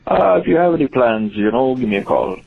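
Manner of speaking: folksy Upper Midwest Yooper caller; small-town Yooper accent, rambling invitation; Upper Wisconsin accent. Acted. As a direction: put on a broad northern Wisconsin accent. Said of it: "Christopher Guest doing a character".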